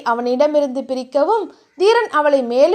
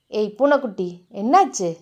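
concerned lover; 5 semitones lower than usual. Acted. Hero gently checks on his beloved.

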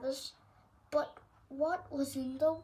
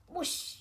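whoosh sound. Pretend. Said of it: "Super cat speed".

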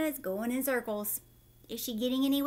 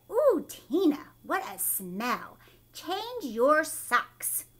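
put-on teasing kids; 3 semitones higher, 4 dB louder, slower than usual. School kids mock the smell.

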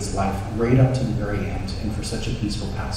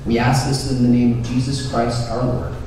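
formal prayer; 3 semitones higher than usual. Acted. Priest praying for the harvest before the congregation, formal and full-voiced. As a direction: proclaim the prayer to the whole church.

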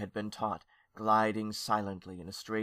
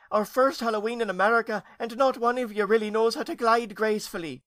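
loud, high-pitched wailing scold; 11 semitones higher, 5 dB louder than usual. A narrator's reading. Worried aunt scolding ghosts before Halloween, wailing. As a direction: scold them in a high wail. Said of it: "she wailed at the little ghosts".

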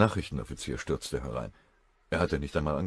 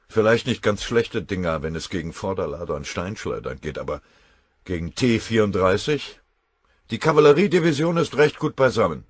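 raised, scoffing officer's voice; scornful colonel; 4 semitones higher, 9 dB louder than usual. Acted. Colonel scoffs to the general about the allies' gear. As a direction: pour scorn on the old equipment.

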